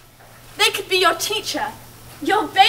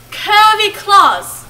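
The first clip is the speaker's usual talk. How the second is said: slow, drawn out; 3 semitones higher, 4 dB louder, much slower than usual. Acted. Drawn out creepy.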